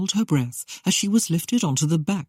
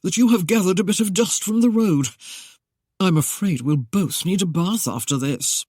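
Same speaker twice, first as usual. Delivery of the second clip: teasing Yankee; 3 semitones higher than usual. Acted. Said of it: "he choked".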